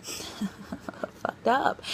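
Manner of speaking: breathy laughing whisper on the swear; whispered swear word. Real, not acted. To viewers, half-laughing whisper of a cuss word. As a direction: drop to a giggly whisper for the bad word. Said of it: "I hate to use that word".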